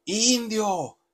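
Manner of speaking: high, loud jeering yells; crowd shouting insults. Retold or imitated. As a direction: yell it like a hostile stadium crowd. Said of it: "la afición le empieza a gritar".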